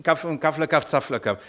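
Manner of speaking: steady nonsense-syllable patter; mock babble in an even rhythm; incomprehensible foreign babble. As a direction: imitate how an unknown language sounds. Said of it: "Das wird für euch klingen wie".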